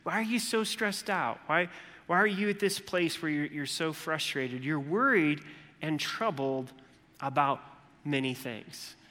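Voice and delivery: gentle Jesus. Retold or imitated. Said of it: "And it's like".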